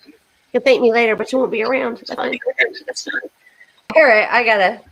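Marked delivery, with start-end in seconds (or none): 1.2-3.2 winded and tired; out of breath. Real, not acted. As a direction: talk while short of breath. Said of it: "catch my breath".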